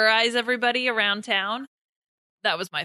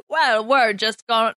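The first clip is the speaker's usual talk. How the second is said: put-on failed British accent sliding toward toothless Texan; badly faked British-Texan accent; botched British accent. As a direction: attempt British, land on mock Texan. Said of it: "now you sound like a toothless Texan".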